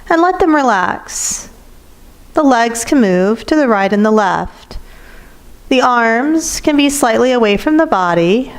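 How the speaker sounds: measured yoga nidra guiding voice, slightly lifted; guided meditation. Acted. Teacher settling students into yoga nidra, guided meditation. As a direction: lead listeners gently into relaxation, pausing between instructions.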